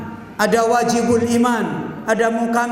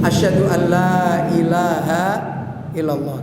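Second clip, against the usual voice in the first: recited low and solemn, the Prophet's way; lower, grave chant of the shahada; 5 semitones lower than usual. Retold or imitated. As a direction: intone it deep and reverent like the Prophet. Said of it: "Nabi kalau bersyahadat bagaimana?".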